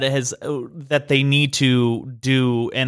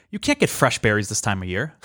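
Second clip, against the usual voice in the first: retold deadpan refusal, lifting at the end; dead-serious waitress; 4 semitones lower than usual. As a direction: imitate a matter-of-fact server, lower in pitch. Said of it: "That's how she said it to us".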